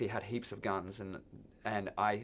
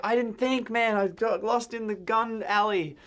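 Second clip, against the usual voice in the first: much higher, louder, slow sheepish whine; shaken excuse; 10 semitones higher, 4 dB louder, slower than usual. Retold or imitated. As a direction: plead your innocence, still shaken. Sheepish excuse after scare.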